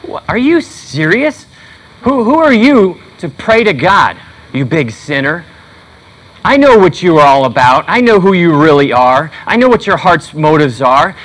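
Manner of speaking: accusing voice. Retold or imitated. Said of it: "I hear this condemning voice".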